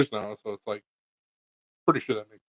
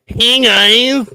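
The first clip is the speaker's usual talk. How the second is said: high, loud cheery greeting; high host greeting; 10 semitones higher, 11 dB louder than usual. Retold or imitated. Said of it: "You're gonna be like".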